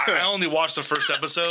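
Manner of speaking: talking right after choking; choking on a drink. Real, not acted. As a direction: speak through a choke on water. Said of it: "He's choking on water".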